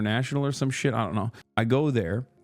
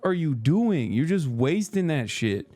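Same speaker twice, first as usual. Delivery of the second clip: mock disbelief; 6 semitones higher, slower than usual. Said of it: "I'm like".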